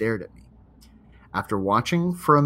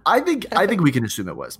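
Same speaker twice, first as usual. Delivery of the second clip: laughing; 6 semitones higher, 3 dB louder, faster than usual. Real, not acted. Laughing while agreeing.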